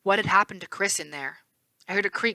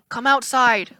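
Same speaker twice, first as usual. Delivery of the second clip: coaxing; 5 semitones higher, 5 dB louder, slower than usual. A narrator's reading. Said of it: "Clarice coaxed".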